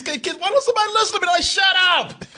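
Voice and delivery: high, fast mock shout at the kid; fed-up dad. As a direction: snap at the kid, half-hammed.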